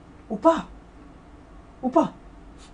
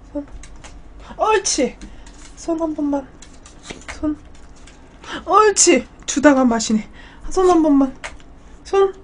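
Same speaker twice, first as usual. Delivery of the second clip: squeaky praising a dog; 5 semitones higher than usual. Real, not acted. Coaxing dog for paw.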